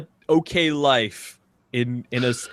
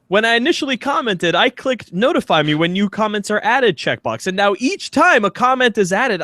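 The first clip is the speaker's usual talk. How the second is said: mock spam bot reading; 6 semitones higher, 3 dB louder than usual. Reading spam comment aloud mock.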